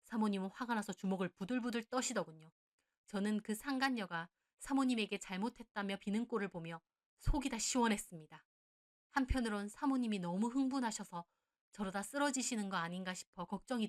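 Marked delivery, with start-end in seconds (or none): none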